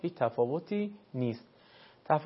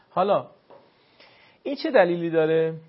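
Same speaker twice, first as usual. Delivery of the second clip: usual speaking voice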